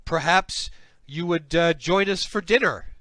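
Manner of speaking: high, loud, gushing greeting; effusive welcome. Acted. Slug welcoming a were-slug to the city, effusive welcome.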